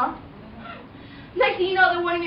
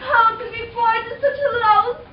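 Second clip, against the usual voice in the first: louder melodramatic lament; hammed-up heartbreak; 4 semitones higher, 4 dB louder than usual. Cinderella calling the birds after the ball, mock heartbroken. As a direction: wail it like a tragic heroine.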